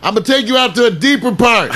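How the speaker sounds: mock yell. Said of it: "He's like yelling from the bottom".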